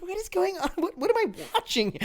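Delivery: high, exasperated cry of disbelief; frustrated disbelief. Retold or imitated. Podcaster reliving a bad movie, exasperated high outburst. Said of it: "frustrated right now reliving this".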